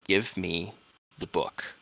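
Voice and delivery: put-on old man's croaked demand. Old man at the window demanding the book, croaking. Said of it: "he croaked out".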